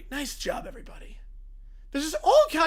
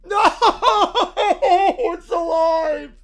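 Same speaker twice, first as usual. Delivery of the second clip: horrified shriek; 5 semitones higher, 9 dB louder than usual. Acted. Horror at humming fridge.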